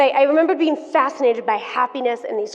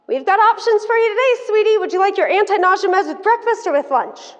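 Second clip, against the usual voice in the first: high, sugary caregiver voice, a bit louder; sweet nurse voice; 8 semitones higher, 3 dB louder than usual. Retold or imitated. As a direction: chirp it like an overly cheerful nurse. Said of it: "she says something along the lines of".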